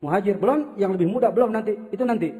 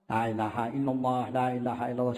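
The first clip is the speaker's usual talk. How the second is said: quiet dhikr; 8 semitones lower, 10 dB quieter than usual. Shown as a demonstration. Preacher demonstrates quiet dhikr.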